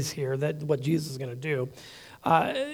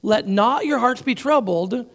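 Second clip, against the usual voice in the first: louder, higher command; 5 semitones higher, 4 dB louder than usual. Shown as a demonstration. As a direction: give it as an order. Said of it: "these are commands".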